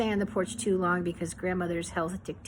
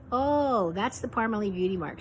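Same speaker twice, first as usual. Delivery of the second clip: feigned surprise; 3 semitones higher than usual. Acted. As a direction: play it lightly as if seeing it for the first time. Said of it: "Aunt June played the moment as if it wasn't".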